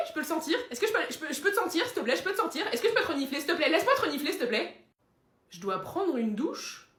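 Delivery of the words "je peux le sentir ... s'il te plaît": higher, insistent pleading; eager begging. Acted. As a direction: beg over and over to sniff the guest. Le chien supplie de renifler l'invité. (supplication aiguë et insistante)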